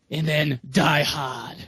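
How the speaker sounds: slow mock Boston accent, dropped R. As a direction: imitate a thick Boston accent. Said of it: "like a pure Bostonian".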